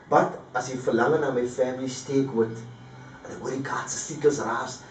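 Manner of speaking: recited street poem, nostalgic and measured; poem recitation. Acted. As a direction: perform the poem as a spoken-word piece. Recites his Cape Flats poem.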